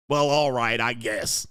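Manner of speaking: mock reluctant wife, sinking at the end; half-willing, hammed-up consent; grudging agreement. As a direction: give in grudgingly, pitch dropping away.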